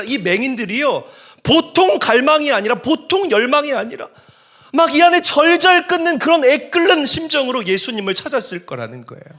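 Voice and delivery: high, loud, urgent pulpit voice; impassioned preaching. Real, not acted. Preacher making congregation feel the blind men's frustration, impassioned preaching.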